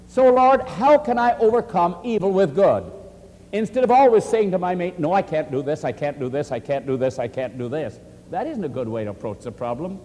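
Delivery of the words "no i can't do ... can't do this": droning refusal, sinking lower with each repeat; monotonous string of refusals, fading down; repetitive refusal. Acted. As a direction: repeat it like a stuck record, dropping away. Repeated refusal one should avoid.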